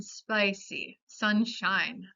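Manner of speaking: "spicy, sunshine" with a clear eye sound; long English I. Shown as a demonstration. Teacher showing the diphthong, "spicy, sunshine" with English long I. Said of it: "En inglés reconocemos la vocal larga".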